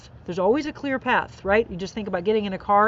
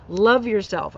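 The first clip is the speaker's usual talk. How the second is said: a hint of Southern accent; unplaced Southern-like accent; 4 dB louder, slower than usual. Real, not acted. Host reading a sticker aloud, slight Southern accent. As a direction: let a light Southern twang slip out. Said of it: "I don't know what that accent is".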